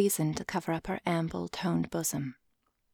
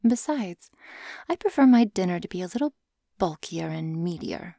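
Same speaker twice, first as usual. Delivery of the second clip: playful teasing snake woman. Acted. Lamia teasing Sean.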